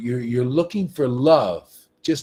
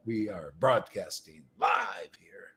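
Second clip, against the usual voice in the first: unvoiced stage whisper, lower; 8 semitones lower, 7 dB quieter than usual. Preacher to his live viewers, in a whisper. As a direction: hush it like sharing a secret. Sudden aside during live broadcast.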